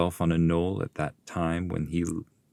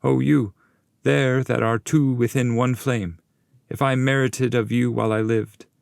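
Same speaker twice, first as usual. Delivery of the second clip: higher, louder ceremonial address; solemn invocation; 7 semitones higher, 3 dB louder than usual. Acted. Virgil invoking the two spirits in one flame, louder solemn call.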